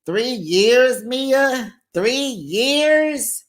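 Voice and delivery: high, disbelieving repeat; mock incredulous question. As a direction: stress the years in disbelief. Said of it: "I was just like".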